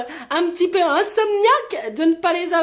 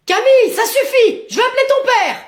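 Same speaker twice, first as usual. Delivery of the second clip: raised, threatening parental voice; exasperated scolding; 4 semitones higher, 5 dB louder than usual. Acted. Mother threatening child with calling father, exasperated. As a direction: scold her loudly, out of patience.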